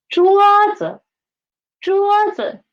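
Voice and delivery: teacher's model 桌子, 子 falling below a high 桌. Shown as a demonstration. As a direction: say 桌子 high first, then drop light 子. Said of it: "the pitch of 子 is lower than 桌".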